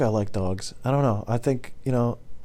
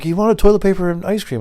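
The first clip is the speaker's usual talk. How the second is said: raised, mildly exasperated retelling; protesting employee; 9 semitones higher, 4 dB louder than usual. Retold or imitated. Driver explaining a silly request to his boss, higher-pitched protest.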